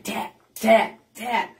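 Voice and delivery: spoken banging, spaced like knocks; imitated door banging. Inmate beating on the cell door, imitated knocking.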